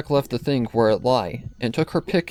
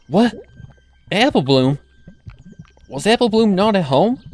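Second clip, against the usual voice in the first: higher, louder alarmed disbelief; shocked; 10 semitones higher, 7 dB louder than usual. Acted. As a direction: gasp it out in disbelief. Applejack shocked finding sister.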